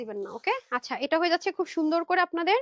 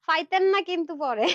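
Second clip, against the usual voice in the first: laughing; 4 dB louder than usual. Real, not acted.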